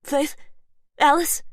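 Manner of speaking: high, loud call through a door. Acted. Voice outside the door calls loudly for Faith and Alice. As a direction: call her name from outside.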